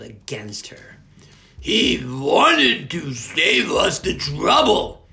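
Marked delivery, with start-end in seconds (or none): 1.6-5.1 higher, loud, slow witch voice; gloating villain. Acted. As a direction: sneer with cruel triumph. Merkel gloating over captive boy.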